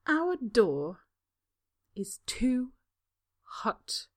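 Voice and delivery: each word drawn out, menacing; dangerous relish. A narrator's reading. Spa woman repeating Draco's excuse with dangerous relish. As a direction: savour every word as a threat. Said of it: "drawing out each word with dangerous relish".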